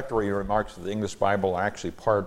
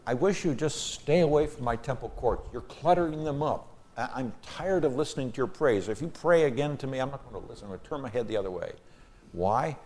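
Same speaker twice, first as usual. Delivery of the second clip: higher-pitched, fed-up paraphrase of God; exasperated God; 5 semitones higher than usual. Retold or imitated. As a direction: voice God scolding hypocritical worshippers, lightly dramatized. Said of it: "God says".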